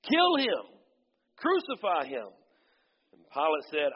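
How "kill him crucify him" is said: high, loud baying cries; crowd shout. Acted. Religious leaders shouting back at Pilate, loud baying. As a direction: scream for his death. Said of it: "They shouted back".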